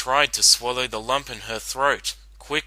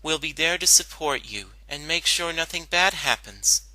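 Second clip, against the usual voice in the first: confident; 4 semitones higher than usual. Acted. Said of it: "Twilight answered confidently".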